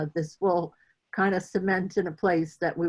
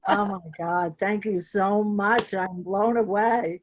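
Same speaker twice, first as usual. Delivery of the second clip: moved to tears; 3 semitones higher than usual. Real, not acted. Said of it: "I'm gonna try not to cry".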